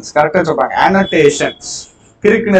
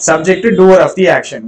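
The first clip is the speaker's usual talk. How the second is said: very slow, word by word for notes; drawn-out teacher dictation; much slower than usual. Shown as a demonstration. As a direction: spell it out slowly so students can write. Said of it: "verb action".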